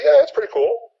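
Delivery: a lightly voiced server answering the customer; server's reply. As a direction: play the server, chirpy. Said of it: "She's gonna say".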